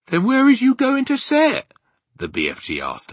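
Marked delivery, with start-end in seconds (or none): 0.1-1.7 very high, loud question; exasperated giant. Acted. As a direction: ask in a baffled giant's raised voice. Giant asks after her refusal.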